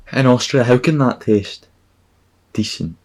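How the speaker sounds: high, loud incredulous outburst; baffled disbelief. Real, not acted. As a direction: raise the pitch in baffled protest. Baffled rant about cola.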